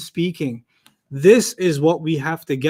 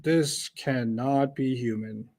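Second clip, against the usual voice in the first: hushed awe; 5 semitones lower, 10 dB quieter, much slower than usual. Real, not acted. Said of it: "awed conclusion on the Quran".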